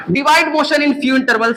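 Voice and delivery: slow read-aloud. Shown as a demonstration. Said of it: "reading the slide slowly".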